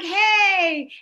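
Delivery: high, drawn-out happy call; excited greeting. Acted. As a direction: call out to a friend across the street. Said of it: "I get really excited".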